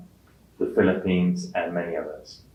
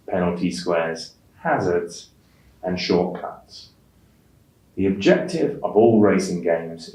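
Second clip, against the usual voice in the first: careful exam read-aloud, clear pauses at each full stop and comma; pausing at stops and commas. Shown as a demonstration. Teacher modelling the read-aloud task for test takers, clear pauses at punctuation. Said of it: "pause for breath at the full stops".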